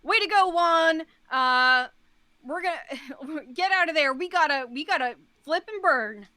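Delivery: loud cheering captain on a speaker; captain over the intercom. Acted. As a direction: shout it over the ship's speaker. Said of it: "the captain on the, like, an overhead speaker".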